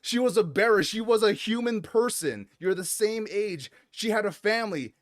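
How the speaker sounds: going off at someone. Retold or imitated. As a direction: act out a mild outraged telling-off. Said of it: "fucking goes off at this little girl".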